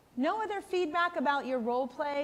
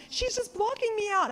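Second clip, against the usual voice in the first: higher, whiny mock-tearful grandma; imitating crying mom; 10 semitones higher than usual. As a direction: play the hurt grandmother, half-teary. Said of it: "she's crying".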